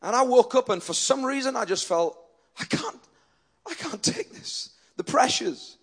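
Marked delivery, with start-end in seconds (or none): 2.6-4.7 hushed, weary reenactment of despair; overwhelmed. Retold or imitated. Preacher reliving a terrible morning under the covers, overwhelmed and hushed. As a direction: softly act out being unable to cope.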